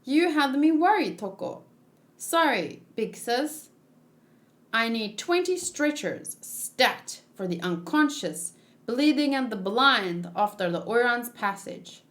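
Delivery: lightly acted anime character voices, each figure a bit different; voiced manga characters. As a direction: read the panel dialogue as the characters, lightly voiced.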